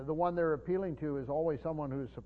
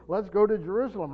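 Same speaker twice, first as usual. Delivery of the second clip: eager call to go; 5 semitones higher, 8 dB louder than usual. Acted. Preacher voicing eager pilgrims.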